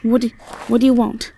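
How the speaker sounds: frightened warning. Acted. Warning off approaching man.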